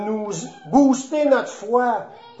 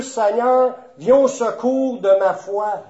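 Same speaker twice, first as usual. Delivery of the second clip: slightly raised, earnest appeal; crying out to God. Shown as a demonstration. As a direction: call on God with a modest lift in volume. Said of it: "faut crier à Dieu". (un appel à Dieu, légèrement appuyé)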